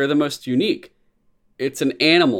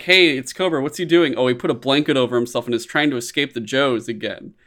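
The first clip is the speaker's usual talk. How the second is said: mock Cobra scene. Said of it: "shitty Cobra".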